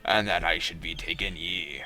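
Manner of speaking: put-on grudging old sea captain; crusty pirate voice. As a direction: agree reluctantly like a sea dog. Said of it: "do you like my crusty pirate voice".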